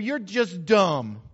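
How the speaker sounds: drawn-out schoolyard jeer; slow mocking taunt. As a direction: teachers mocking him slowly, just dumb. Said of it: "they said".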